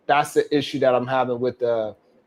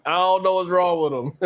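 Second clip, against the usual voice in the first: amused disbelief; 3 semitones higher than usual. Real, not acted. Host shaking his head at the dancing man, in amused disbelief. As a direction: say it again, shaking your head at them.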